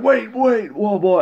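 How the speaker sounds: hammed-up cry to stop her; mock frantic yell. Retold friend running in shouting.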